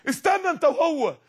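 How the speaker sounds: peremptory call to wait; commanding divine order. Acted. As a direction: stop the condemned with a sharp command. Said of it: "ده بيقول للي بيترموا في النار".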